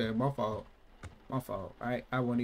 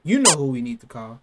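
loud threat; 11 dB louder than usual. Real, not acted. Threatening the baby.

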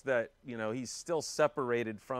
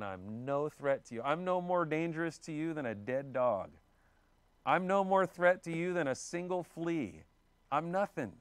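mildly acted plea, rising higher as it goes; insistent self-abasement; 4 semitones higher than usual. David tells Saul he is no threat, insistent pleading. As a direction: insist on being harmless, pitch climbing.

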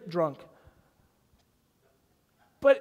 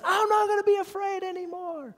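1 yelled vow; 10 semitones higher than usual. Retold or imitated. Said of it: "yell this at the top of my lungs".

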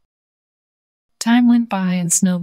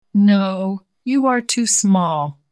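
mocking laugh; 3 semitones higher, 4 dB louder, slower than usual. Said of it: "laughed Snowball".

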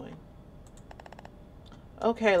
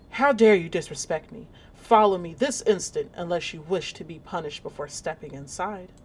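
stern nurse in character. Acted. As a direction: play the cold asylum nurse scolding the new kid. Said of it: "Let me get in character".

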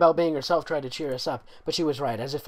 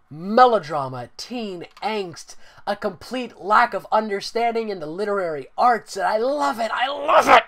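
rising, ever louder delighted rant; gleeful rant; 7 semitones higher, 6 dB louder than usual. Real, not acted. Reviewer gushing over awful fanfic, gleeful building rant. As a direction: build to a squealing I love it.

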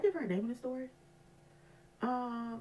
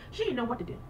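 talking through laughter, louder; laughing; 2 semitones higher, 4 dB louder than usual. Real, not acted. Telling viewers how the coworker froze, laughing through it. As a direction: laugh as you tell it.

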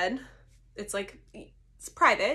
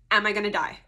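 laughing; 3 semitones higher, 7 dB louder, faster than usual. Retold or imitated. Nervous question to the doctor.

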